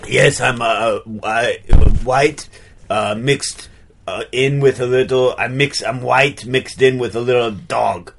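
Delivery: put-on muddled French-Austrian artist accent; like a French person imitating an Austrian; affected French-Austrian accent, played straight; French Arnold accent. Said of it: "French person doing an Arnold Schwarzenegger impression".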